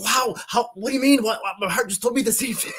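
very high, stammering disbelief; high-pitched, flabbergasted reenactment; retold astonishment. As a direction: tumble out amazed questions high in the voice. Retold astonishment at wife's words.

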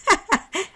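high, loud acted laugh; short heartfelt laugh in character; hearty laugh. A narrator's reading. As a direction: burst out in a sincere laugh. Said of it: "Él rió sinceramente".

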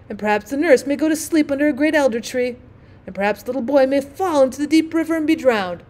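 lightly voiced pompous doom-monger; melodramatic rocket. Rocket imagines the prince's son drowning, mildly melodramatic. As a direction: spin the tragedy with mild self-regard.

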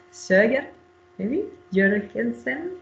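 careful Danish accent on Jørgensen, slowed. Shown as a demonstration. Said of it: "I tried to put my best, uh, Danish accent".

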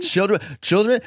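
put-on Children? asked up high; teasing high echo; high mock disbelief. Shown as a demonstration. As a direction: echo it in a squeak. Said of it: "Say it three times".

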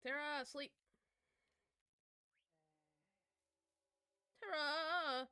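real impatient shout across the game; calling out. Real, not acted. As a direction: holler for someone to come, pitched high. Calling out to player to sleep.

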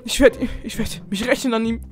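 vowing revenge. Acted. Kevin vowing revenge on Oxy, loud and vengeful. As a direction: swear it through clenched anger.

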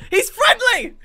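laughing high and loud. Real, not acted. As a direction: laugh it out in delight. Laughing surprise.

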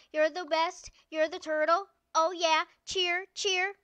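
loud, high victory cheer; screaming cheers, drawn-out winner call; cheerleader shouting. Real, not acted. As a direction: whoop for the winning turtle. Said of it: "Sorry, I'm a cheerleader".

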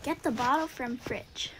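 reads the prompt in a soft whisper; breathy under-the-breath reading; whispered task reading. Real, not acted.

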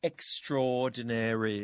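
"extraordinary" slowly, merged as "ex-tror-di-nary"; common merged pronunciation. Shown as a demonstration. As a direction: model "extraordinary" with "extra" and "or" fused. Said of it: "ส่วนใหญ่จะออกเสียงว่า". (ออกเสียง "extraordinary" ช้า ๆ แบบรวบพยางค์)

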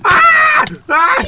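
sudden high yelp; startled cry; surprised shout. Real, not acted.

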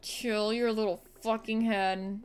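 mock scolding. Scolding a game enemy.

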